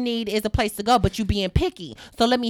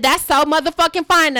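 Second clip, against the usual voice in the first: sarcastic retort; 5 semitones higher, 6 dB louder than usual. Retold or imitated. Sarcastic reply to sister.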